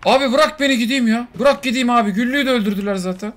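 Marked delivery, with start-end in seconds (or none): 0.0-2.1 high pleading sidekick voice; voiced pet begging. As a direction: plead to be let go. Voicing Samet begging.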